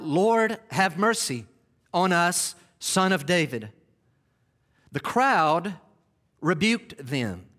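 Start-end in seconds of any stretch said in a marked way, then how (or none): 0.0-3.7 raised voice pleading for mercy; crying out. Acted. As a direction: call out to the passing Lord, pleading. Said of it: "They cried out".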